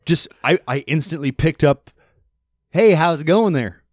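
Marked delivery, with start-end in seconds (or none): 2.7-3.8 a touch higher, light Midwest-Canadian lilt with eh; Midwest accent. Retold or imitated. Imitating Midwest talk he picked up, light Midwest accent. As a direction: chat like a friendly Minnesotan. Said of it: "pick up this kind of Midwest accent".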